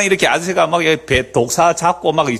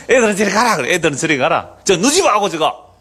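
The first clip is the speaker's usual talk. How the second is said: mock irritated shooing, pitched up; annoyed elder shooing kids; 6 semitones higher than usual. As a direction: brush the kids away, slowing at the end. (짜증 섞인 어른 말투 흉내)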